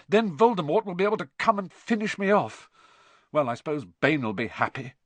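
high agitation, easing at the end; feverish. A narrator's reading. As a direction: keep going feverishly to a bitter close. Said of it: "Harry went on feverishly".

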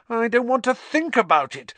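high-pitched, fretful wail; anxious moan. A narrator's reading. Hermione checks her watch again, moaning. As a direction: moan it in mounting panic. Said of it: "Hermione moaned".

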